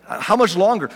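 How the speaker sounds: mock exasperation; exasperated. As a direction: ask it as if patience has run out. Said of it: "he's exasperated again".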